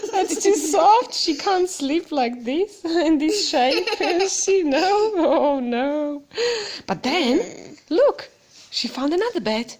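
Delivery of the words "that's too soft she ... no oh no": giggling through the words; laughing. Real, not acted. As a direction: laugh while you say it. Laughing at the picture.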